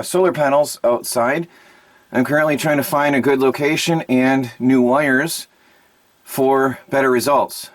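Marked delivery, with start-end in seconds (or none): 2.1-7.7 breathless from running; out of breath. Real, not acted. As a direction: talk while catching your breath. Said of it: "Sorry I'm out of breath".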